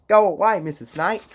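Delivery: loud call. Acted. Reader acting the bear's order, a loud high call. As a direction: call out loudly to the snake. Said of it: "It says".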